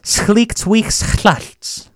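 slow, drawn-out reply to a spouse; slow demo answer. Pretend. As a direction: answer the spouse slowly and clearly. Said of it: "Your husband or wife asks you".

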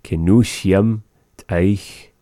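Kenusiam teich said slowly, syllable by syllable; slow model repeat. Shown as a demonstration. Teacher modelling for learners, slow. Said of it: "repeats the recording".

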